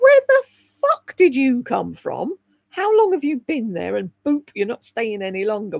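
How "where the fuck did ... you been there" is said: shocked discovery. Retold or imitated. Finding a long hair in the magnifying mirror, mock-shocked. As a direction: gape at the stray hair in disbelief. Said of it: "it's like".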